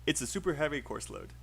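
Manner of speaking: "It's a" linked as a contraction at the start; contracted "it's" model. Shown as a demonstration. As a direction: model the sentence with "It's" as one syllable. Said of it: "You should say "it's a".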